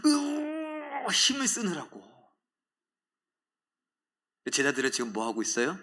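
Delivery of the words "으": high strained groan of effort; pained moan mid-prayer; straining groan. Shown as a demonstration. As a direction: groan as if pushing with all your strength. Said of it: "신음소리라도 나지 않았을까요".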